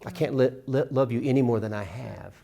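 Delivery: "any" lifted and leaned on, meaning a greater amount. Shown as a demonstration. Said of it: "Emphasize individual words in the title".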